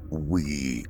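slow, cold and measured guardian; a lightly voiced grim keeper, speaking slowly; stern bunker dweller. Akron's slow, measured replies.

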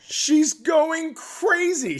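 high, very slow, loud; squealing with amusement; excited. Real, not acted. Laughing, exaggerated telling.

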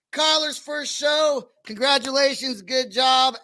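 slow, drawn-out hype call to the audience; hyped shout-out. Real, not acted. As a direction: stretch it out like a radio host. Host wrapping up show loudly.

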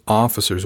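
"officer's" lightly leaned on with disdain; disrespectful stress on OFFICER'S. A narrator's reading. Crewman mocking his superior, mildly scornful weight on "officer's". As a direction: put a mild sneer on "officer's". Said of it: "The way he said officer".

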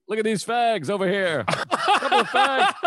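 riff at the front row like a hyper comedian; a hint of a wild stand-up heckling the crowd; Robin Williams impression. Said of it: "Robin Williams kept calling back to".

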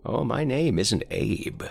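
put-on slow, high, raspy old man. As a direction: rasp it out like a frail old man. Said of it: "he rasped".

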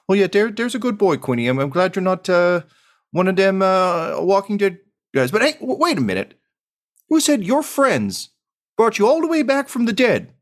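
high, teary mother voice, quivering; a tearful mom's very high voice; quivering-lipped mom. Acted. Mom tearfully greets her returned son. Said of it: "with quivering lip".

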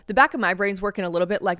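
ordinary delivery

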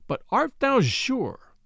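high, slow, odd little voice; little doctor voice. A narrator's reading. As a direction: draw it out, high and thin. Little doctor asks prior.

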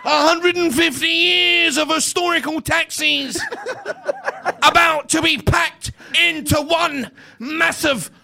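hammed-up commentator ad, laughing through it; Ian Crocker. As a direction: shout the ad like a big commentator, cracking up. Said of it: "in the style of Ian Crocker".

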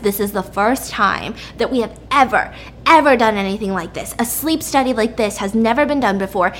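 stern telling-off, landing hard on the last order; pissed off. Acted. Head doctor scolding the researcher over unauthorized images, pissed off. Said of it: "and he's pissed".

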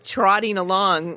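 ordinary delivery

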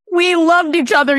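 high, imitated gushing voice; mock gushing. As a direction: play the friend beaming about the stranger. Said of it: "he goes".

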